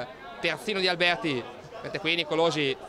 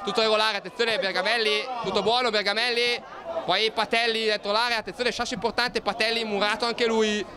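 rising, urgent play-by-play; excited commentary; 4 semitones higher than usual. Real, not acted. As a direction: build up to the near chance. Chance in the box. (telecronaca concitata)

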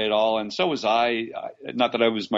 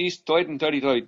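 lightly done New York accent, Toit for Third; a quick Brooklyn-style New York twang on Toit; an actor's try at a New York accent for the director; 5 semitones higher than usual. Shown as a demonstration. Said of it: "so I would do my New York accent".

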